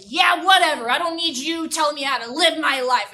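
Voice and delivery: loud defiant brush-off. Acted. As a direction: snap back, loud. Herman angry reply.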